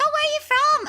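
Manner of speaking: high, sweet auntie voice; imitating the boss. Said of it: "she was like".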